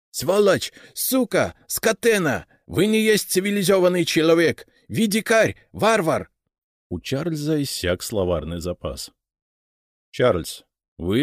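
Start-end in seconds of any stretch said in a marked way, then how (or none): 0.1-6.3 put-on high, loud cursing in a foreign accent; furious foreigner spitting insults; English accent Russian. Englishman cursing his captors. (английский акцент, яростная брань)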